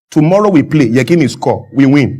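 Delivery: imitating a Dutch coach's broken English; Clemens Westhoff. Coach telling media about tomorrow's match, lightly imitated broken English. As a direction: lightly mimic halting, grammarless football talk. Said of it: "That's how he talks".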